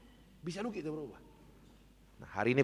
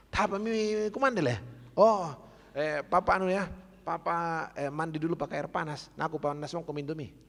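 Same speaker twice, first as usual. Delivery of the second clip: higher, louder eager wife voice; fussing wife; 5 semitones higher, 3 dB louder than usual. Retold or imitated. Pastor acting the wife rushing to serve her husband, high and eager. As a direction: play the flustered wife jumping up. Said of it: "Istri yang baik pasti langsung bangun".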